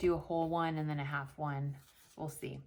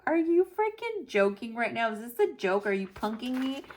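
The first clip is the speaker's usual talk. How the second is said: incredulous; 4 semitones higher than usual. Retold or imitated. Retold shock at wrong stitches.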